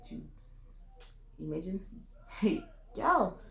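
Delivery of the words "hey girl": playful high greeting; a teasing sing-song hey girl; acting like Mbogodo. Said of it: "trying to act like Mbogodo".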